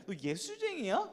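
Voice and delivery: high, drawn-out sneering question; sarcastic. Shown as a demonstration. Preacher showing how people sneer at believers, sarcastic. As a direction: stretch it into a jibe, rising at the end. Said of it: "이렇게 비꼬는 말".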